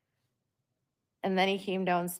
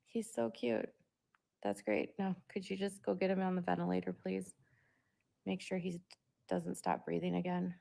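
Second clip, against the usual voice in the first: soft, sarcastic mock-polite plea; sweetly sarcastic, asking nicely through clenched patience; mock polite sarcasm; 6 dB quieter than usual. Mother answering the cooing doctor, softly sarcastic. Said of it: "It was so weird, like".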